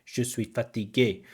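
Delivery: "Je suis fatigué" in even French syllables; French syllable-timed demo. Shown as a demonstration. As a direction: demo French rhythm, each syllable equal. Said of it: "they say, like".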